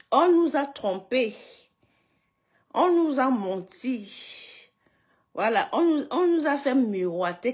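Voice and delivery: loud indignation. Real, not acted. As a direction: drag out "On nous a menti" in protest. Complaining of lies to viewers.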